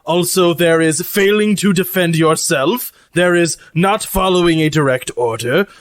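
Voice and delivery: deliberate, lightly pompous character voice; formal robot cook. Acted. Lucy tells crew the crimes of dishonor, mannered formal voice. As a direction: begin a solemn catalogue, weighing each item.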